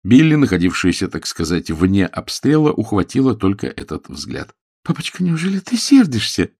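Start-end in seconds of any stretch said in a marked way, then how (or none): 4.8-6.5 put-on pitched-up girl's voice, anxious plea; a worried daughter crying out to papa; daughter exclaiming. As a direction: daughter pleading with her angry father. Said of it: "воскликнула она".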